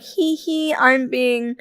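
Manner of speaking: lightly put-on cutesy tee-hee; mildly mocking imitation of cutesiness. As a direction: imitate someone being coyly cute. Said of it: "she said it in a, like".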